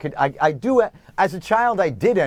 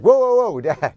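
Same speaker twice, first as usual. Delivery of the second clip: imitated alarmed son; 4 semitones higher, 5 dB louder than usual. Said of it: "he's like".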